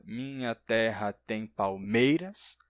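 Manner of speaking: slow verse, paced syllable by syllable; counting syllables. Shown as a demonstration. Teacher showing how verse is counted, syllable-by-syllable delivery. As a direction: recite slowly up to the last stressed syllable. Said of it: "Então, a gente conta".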